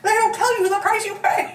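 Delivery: breaking up laughing mid-line. Retold or imitated. Retrying the dramatic quote, collapsing into laughter. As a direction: try the line but crack up. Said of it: "I can't even do it".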